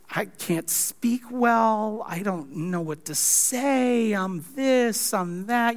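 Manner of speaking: slow, hesitant, mildly whiny Moses; reluctant excuses. Retold or imitated. Moses pleading with God that he cannot speak, mildly whiny and slow. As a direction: drag out each excuse like a reluctant man. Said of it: "big diatribe of why God chose wrong".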